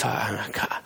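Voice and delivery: winded, broken-off reply; imitating out of breath. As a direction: act too winded to finish. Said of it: "he's out of breath".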